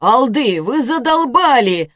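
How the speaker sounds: put-on loud, high, exasperated teenage shout; fed-up son yelling at his quarrelling parents; loud, slow, fed up; annoyed yell. Teen yelling at arguing parents.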